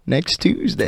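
mock deadpan read. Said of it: "you're like".

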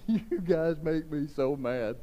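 a hint of exasperation at the Pharisees; mild exasperated Jesus. Pastor voicing Jesus frustrated with the Pharisees, mildly exasperated. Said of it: "And he was just like".

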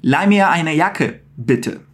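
slow polite German request; slow polite model. Shown as a demonstration. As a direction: model the polite ask slowly. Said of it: "colocar um bitte no final".

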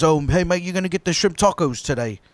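retold British mate, lightly accented; casual British-accented impression. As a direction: imitate a friendly British pal asking. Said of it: "The British guy".

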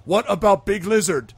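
loud, high, slow troll question. Acted. Troll asking about the lizard companion, loud and slow. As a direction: demand it loudly, word by word. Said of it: "he looks at Justice".

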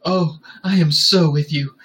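purring. A narrator's reading. She moves in on him, purring. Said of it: "she purred as she moved to him".

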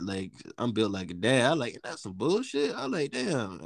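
normal talking voice

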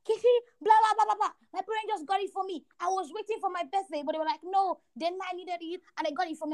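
high-pitched imitation of a friend's news; retold excited friend.

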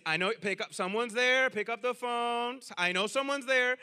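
loud, insistent phone message, words dragged out; imitating grandma. Grandma begs someone to pick up the phone, mock insistent. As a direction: keep pestering the answering machine, mock pleading. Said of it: "That's the whole message".

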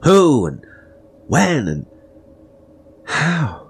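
loud, high angry questions; furious demand. A narrator's reading. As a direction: hurl the questions at her. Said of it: "I demanded".

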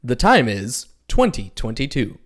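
movie-trailer announcer. Acted. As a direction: put on a dramatic trailer voice. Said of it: "He likes to do his movie voice".

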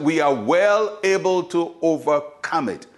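measured, confident statement of faith; confident declaration. Retold or imitated. Caleb to the people, speaking confidently. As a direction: declare it with assurance. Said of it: "we have to learn to speak confidently".

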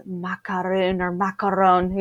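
lightly put-on French pronunciation; imitated French accent. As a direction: imitate a Frenchman saying the pastry's name. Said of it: "He says it all Frenchy".

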